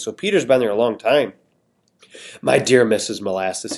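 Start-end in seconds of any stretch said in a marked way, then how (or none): 2.4-3.8 sweetly smiling king. Acted. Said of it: "he said, smiling at her".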